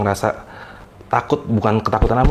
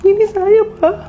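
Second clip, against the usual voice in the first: put-on much higher, small eerie girl-ghost voice; possessed maid as ghost; slower than usual. Possessed maid tells her boss it is the ghost, high eerie voice. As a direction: let the ghost speak through the maid. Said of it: "Dia ngomong".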